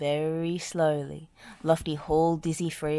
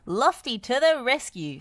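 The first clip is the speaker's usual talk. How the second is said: smiling; 7 semitones higher, 5 dB louder than usual. A narrator's reading. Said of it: "smiled Lofty".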